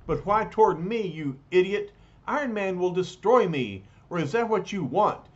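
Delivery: mock fright in a hurried, rising voice; afraid. A narrator's reading. Khrushchev protests as the robot shuffles toward him, afraid. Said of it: "Khrushchev is really afraid of Vanko".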